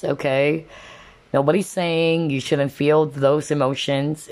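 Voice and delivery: normal talking voice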